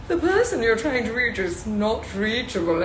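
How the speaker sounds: a too-cheerful recorded operator; sing-song automated announcement; chirpy telephone lady. Retold or imitated. Mocking the happy telephone lady to her live viewers. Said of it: "she's always so happy".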